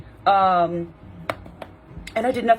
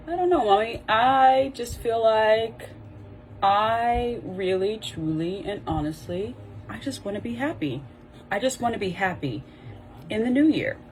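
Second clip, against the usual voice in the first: lightly voiced hesitant child, trailing softer; child's answer; 4 semitones higher, 3 dB quieter than usual. Child answering mother about a resolution, hesitant and softly pleading.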